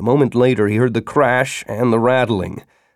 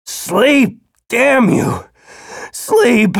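higher, desperate furious yell; angry shout; 11 semitones higher, much slower than usual. Acted. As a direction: bark the order in fury. Father yells at child.

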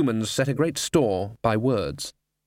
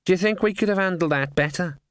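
raspy cawing crow; 6 semitones higher than usual. Acted. Raven speaking.

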